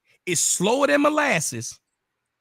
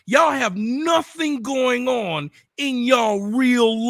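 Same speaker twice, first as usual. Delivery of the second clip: shouting them down, outraged and higher; angry shouting; 5 semitones higher, slower than usual. Real, not acted. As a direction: yell it at them in disbelief. Furious rant at rival YouTuber.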